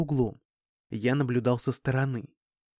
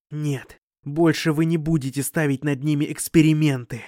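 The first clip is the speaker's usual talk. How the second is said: angry; 4 dB louder than usual. Acted. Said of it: "С такой злостью я ещё никому не возражал".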